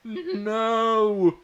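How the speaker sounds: very high screaming no. A narrator's reading. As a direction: shriek as he is stabbed. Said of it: "he screamed".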